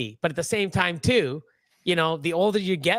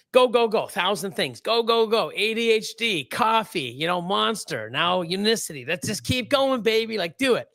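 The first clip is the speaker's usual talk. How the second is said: higher, punchy go-go-go patter; hyped-up self-talk; 4 semitones higher than usual. Acted. Man mimicking his hundred-degree stress life, hyped up. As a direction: egg yourself on like a hype man.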